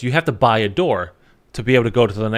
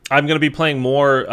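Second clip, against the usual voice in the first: yawning; 3 semitones higher, 3 dB louder than usual. Real, not acted. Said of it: "I'm sorry for yawning".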